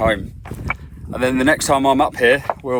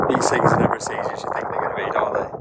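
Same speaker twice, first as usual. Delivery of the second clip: panting, breathy words mid-climb; gasping out words while climbing; out of breath; 3 dB quieter, faster than usual. Real, not acted. Breathless on steep climb to summit.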